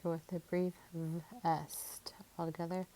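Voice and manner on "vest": "vest" with the v held apart from the rest; sounded-out syllable. Shown as a demonstration. Teacher sounding out a syllable, "vest" slowly segmented. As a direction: stretch the v, then finish "vest". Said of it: "My second syllable".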